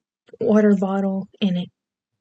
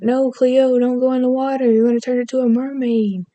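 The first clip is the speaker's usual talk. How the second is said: put-on higher-pitched Australian accent; 4 semitones higher than usual. Quoting a mermaid show's warning to Cleo, Australian accent. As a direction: plead like an Aussie TV mermaid. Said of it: "the Australian accent".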